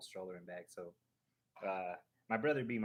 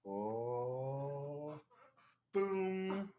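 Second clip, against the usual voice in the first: triumphant boom; 4 semitones higher than usual. Real, not acted. Reveals hidden Mickey on stream.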